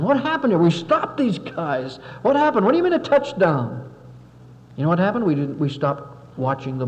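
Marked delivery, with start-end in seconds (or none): 0.0-3.9 stunned disbelief. Retold or imitated. Stunned team after touchdown.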